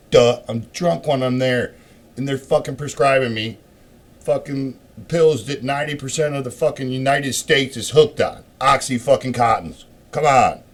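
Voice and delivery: loud, high, outraged rant about the pills; riled up and raising his voice; worked-up rant. Real, not acted. Ranting loudly to the camera about the pills.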